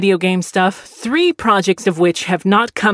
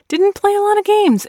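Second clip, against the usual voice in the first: usual speaking voice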